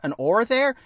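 high-pitched puzzled question; baffled captain. Acted. Captain puzzled by the villain's threat, high acted bafflement. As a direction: ask it high, in mock bafflement.

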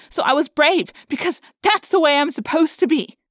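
high, loud, frightened rant; distraught outburst. A narrator's reading. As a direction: pour out the fear at full pitch.

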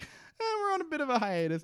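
way up high and quick, a mock casual brush-off; « we're on a bit of a hiatus » tossed off breezily, high and fast; mock evasive excuse. Mocking Charlie's evasive excuse.

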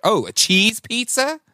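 high, drawn-out mock realisation; high, slow questioning lilt, as if it just clicked; retold dawning realisation. Retelling his confusion over plain pie, mock realisation.

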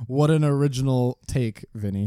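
mock-amazed sarcasm; ribbing a friend over his obvious take, sarcastic. Real, not acted. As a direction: tease him for stating the obvious. Mocking friend's obvious point.

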